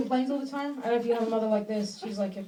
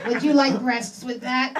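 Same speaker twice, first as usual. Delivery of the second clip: mock flirty clerk; 7 dB louder, slower than usual. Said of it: "she pretends to be a slutty drive-through clerk".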